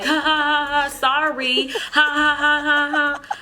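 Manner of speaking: high, forced mock laugh; hammed-up fake giggle, badly acted; fake laughing sorry. Mocking the clerk's giggly sorry. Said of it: "I know that was really bad acting".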